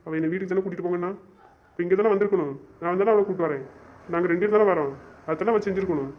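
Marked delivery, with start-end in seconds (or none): 1.7-6.1 angry. Acted. Angry rant about his sister.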